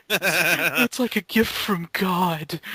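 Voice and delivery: slow, laughing mock awe. Joking with friends, laughing mock gratitude. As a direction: laugh through the words.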